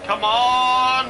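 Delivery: frustrated shout. Real, not acted. Frustrated at the car slowing.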